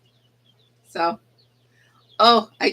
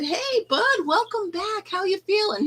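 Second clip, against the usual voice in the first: much higher, bright welcome; cheery teacher greeting; 11 semitones higher than usual. Retold or imitated. Welcoming the sick kid back, high cheery greeting. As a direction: greet him like a sunny teacher. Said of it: "I said".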